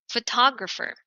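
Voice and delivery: phoTOGrapher, second syllable stressed; photographer, punch TOG. Shown as a demonstration. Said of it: "You have to say this as".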